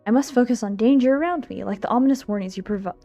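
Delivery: ordinary delivery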